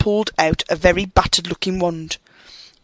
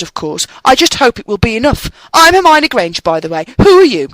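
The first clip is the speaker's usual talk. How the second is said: put-on higher, louder know-it-all girl rattling on; bossy, fast talking; 4 semitones higher, 4 dB louder than usual. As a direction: rattle it off in one proud breath. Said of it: "She said all that very fast".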